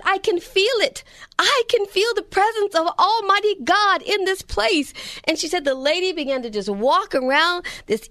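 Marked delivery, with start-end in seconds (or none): 0.0-4.9 put-on higher, raised Jamaican accent; lightly done Jamaican accent, fervent. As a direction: imitate an elderly Jamaican lady sensing God. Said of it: "this amazing Jamaican accent".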